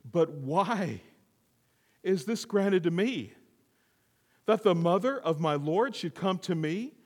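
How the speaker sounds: slightly lifted, paused questioning in wonder; amazed wonder. Retold or imitated. Preacher quotes Elizabeth asking why she is honored, amazed. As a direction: ask it haltingly, as if amazed. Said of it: "She was amazed".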